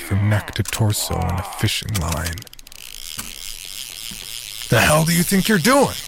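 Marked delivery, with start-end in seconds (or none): 4.7-6.0 angry growl. Acted. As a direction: growl it in anger. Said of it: "Teddy growled".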